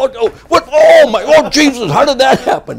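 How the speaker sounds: high, loud hammed-up shock with laughter; mock innocent surprise. Bobby caught with his zipper open, hammed-up high surprise. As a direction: play dumb and shocked, very high.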